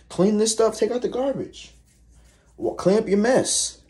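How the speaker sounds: high whiny mock nag; a mimicking whine; mock nagging. Mocking roommate's complaints.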